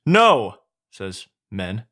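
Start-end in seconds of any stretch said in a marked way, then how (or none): 0.1-0.6 high, loud cry of refusal; loud protest. Acted. The men cry out in fear.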